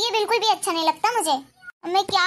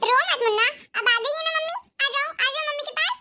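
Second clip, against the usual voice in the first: put-on higher, sing-song voice calming a crying baby; young mother cooing; 7 semitones higher than usual. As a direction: hush the baby, mock-sweet. Ekta soothes crying baby. (रोते बच्चे को पुचकारती माँ, ऊँची आवाज़ में)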